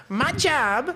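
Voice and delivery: high, put-on Asian accent; mock Asian accent. Imitating the Asian lady's quote to friends in a mock Asian accent. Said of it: "I'm doing the accent".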